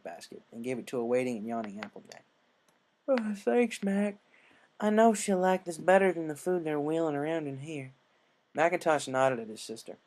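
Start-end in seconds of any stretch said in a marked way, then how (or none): 3.1-7.9 higher, louder folksy farm mare, friendly and grateful. A narrator's reading. Applejack thanking her brother, in a higher, friendly country voice.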